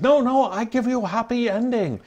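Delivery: high, put-on mock Asian accent for the masseuse; hammed-up Asian masseuse accent, pitched high. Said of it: "She goes".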